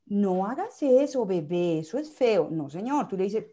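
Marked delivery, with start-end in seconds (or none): 0.1-2.5 firm command. Shown as a demonstration. Parent firmly stopping a baby's misbehaviour, loud command. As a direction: put your foot down with the child. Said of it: "una voz de mando es una voz firme".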